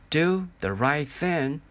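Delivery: drawn-out, insistent echo; slow echoing repeat, rising. Acted. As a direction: let it ring slowly in the head. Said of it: "grandfather's voice saying".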